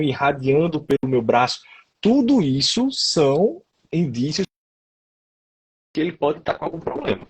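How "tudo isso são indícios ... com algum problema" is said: choppy call audio cutting out; speech stuttering over a bad connection; breaking up. Real, not acted. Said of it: "Você tá dando uma picotada".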